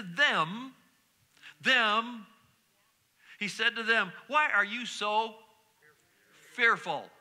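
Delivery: slow, savoured "Why are you so fearful?", each word stretched; drawn-out emphasis. Shown as a demonstration. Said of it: "now I love this".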